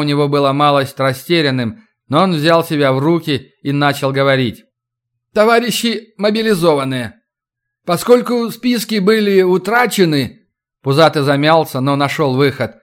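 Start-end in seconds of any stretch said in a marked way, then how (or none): 5.3-10.5 flustered official speech. Acted. Official addresses recruits.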